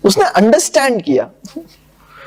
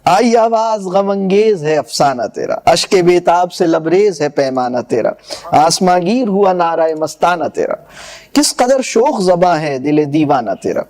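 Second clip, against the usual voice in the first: measured, lower verse recital; poem recitation; 3 semitones lower than usual. Acted. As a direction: recite the couplets with gravity. (شاعرانہ انداز میں پڑھت)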